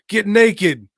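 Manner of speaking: loud, high mock thug command; barked order. Thugs bullying Black, a loud high shouted order. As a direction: yell it down at him, high and harsh.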